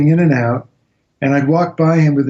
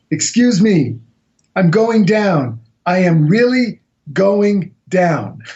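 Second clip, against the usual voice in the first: calm quote; 5 semitones higher, slower than usual. Retold or imitated. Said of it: "She was so calm".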